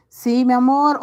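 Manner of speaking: gently imitated sweet, soothed reply; a touch of tender calm; soft husband voice. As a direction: lightly mimic a husband gone mellow. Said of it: "tiene una voz suavecita".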